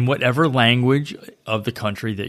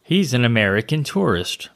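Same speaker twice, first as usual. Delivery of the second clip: a vaguely foreign local mocking an American tourist; vague foreign accent; 4 semitones higher than usual. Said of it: "no idea what accent I was using there".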